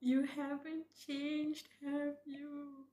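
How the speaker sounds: slow, high, tearful reading. Real, not acted. Reading a moving line aloud to viewers, tearful. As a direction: read it slowly while really welling up. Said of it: "I'm crying like crazy right now".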